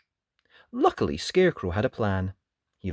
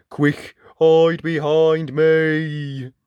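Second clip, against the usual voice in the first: urgent call; 3 semitones higher, 7 dB louder, much slower than usual. Acted. Tin can shields friends.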